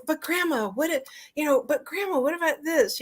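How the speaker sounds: put-on a child tugging at grandma with questions; curious child. Recalling herself as a kid, asking grandma eagerly.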